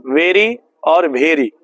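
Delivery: contrasting very and bhery; two readings. Shown as a demonstration. Teacher contrasts both readings for students. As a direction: say very then the wrong bhery. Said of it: "इसको वेरी पढ़ा जाता है".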